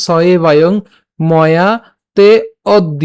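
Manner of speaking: "স এবায়ং ময়া তে অদ্য" given word by word; teacher sounding out "এবায়ং ময়া" carefully; pronunciation demo. Shown as a demonstration. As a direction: separate "তে" from "অদ্য" with a short pause. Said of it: "তাহলে উচ্চারণটা কেমন হচ্ছে".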